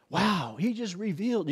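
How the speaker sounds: imitating Christian talk. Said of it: "you'll hear Christians talk like that".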